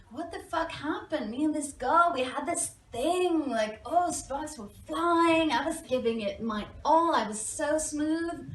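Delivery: bewildered gushing. Retold or imitated. Telling friends about a night out, baffled excitement. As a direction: gush in disbelief, pitch lifted.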